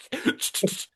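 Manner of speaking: mimicked camera clicking, no voice; imitated camera noise. Imitates the man with his camera.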